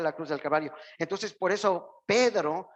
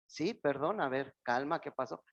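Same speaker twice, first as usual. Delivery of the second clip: softer, calm reply to someone upset; much softer, patient reassurance; gentle soothing answer; 3 semitones lower, 5 dB quieter than usual. Retold or imitated. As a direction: defuse the anger softly. Gentle answer to angry person.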